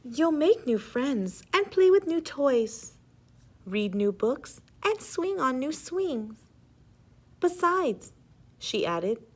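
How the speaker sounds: gentle mother. Acted. Mother comforting her child.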